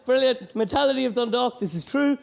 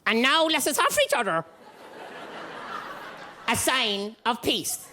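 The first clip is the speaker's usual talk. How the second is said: priest voice; 3 semitones higher than usual. Retold or imitated. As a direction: drag it out like a priest at Mass. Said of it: "in that universal priest voice".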